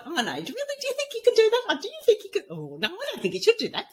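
high, chattering voice of self-doubt; squeaky mock-worried inner voice; monkey chatter. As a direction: play the nagging doubter in your head, half laughing. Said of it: "The monkey chatter went off, and it was like".

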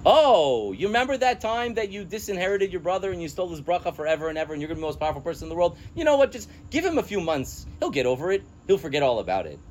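sarcastic, high mock of Rivka's advice. Teacher mocks Rivka's advice, sarcastic and high. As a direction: parody a naive mother's plan. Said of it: "stupidest thing I've ever heard".

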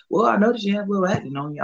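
high, quick prissy doctor voice; mock doctor voice. To the patient about acne, a high mocking doctor. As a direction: imitate the doctor lecturing.

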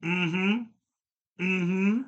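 mimicking a listener's mm-hmm; lightly voiced friend's mm-hmm; imitating Elliot. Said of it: "Elliot's new favorite".

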